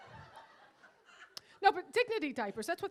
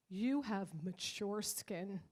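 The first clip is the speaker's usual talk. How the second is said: slow condescending; 6 semitones lower, 6 dB quieter, much slower than usual. Retold or imitated. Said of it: "she was like".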